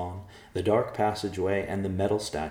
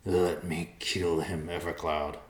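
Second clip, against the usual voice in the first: begging; slower than usual. Acted. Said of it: "Riverpaw begged".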